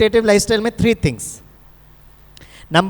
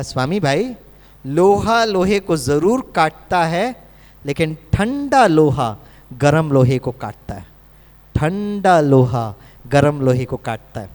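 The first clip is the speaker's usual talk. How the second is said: lower, slower, patient advice; loving explanation; 6 semitones lower, slower than usual. Retold or imitated. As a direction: explain it gently like a caring doctor. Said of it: "तो doctor ने बहुत प्यार से समझाया".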